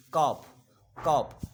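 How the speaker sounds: कॉप with L silent, ending in an f sound; silent-L demo. Shown as a demonstration. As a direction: say कॉप as "kaaf", no L. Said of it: "फा का sound". (कॉप में एल silent, अंत में फ की ध्वनि)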